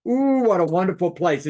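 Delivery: wowed by the destination; impressed gushing. Shown as a demonstration. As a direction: gush with a rising ooh. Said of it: "this is what, how you do it".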